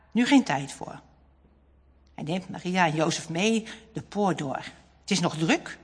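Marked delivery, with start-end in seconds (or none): none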